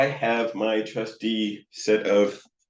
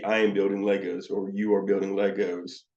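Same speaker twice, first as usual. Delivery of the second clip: flat, toneless parroting; 2 semitones lower than usual. Shown as a demonstration. Counselor parroting a child's words, flat. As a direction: repeat it back flatly. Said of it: "that's just this flat kind of".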